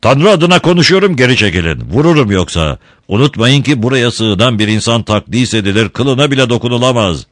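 loud, high, commanding threat; threatening warning. Acted. Don Camillo brandishing a candlestick to stop the mob, loud and threatening. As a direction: hold back the mob with the voice. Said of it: "tehdit edercesine havada sallamaya başladı".

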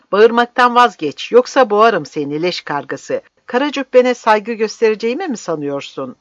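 loud, high-pitched angry shout; enraged shouted warning; furious threat. Acted. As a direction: explode at the old man with menace. Lucas seizes and threatens old man.

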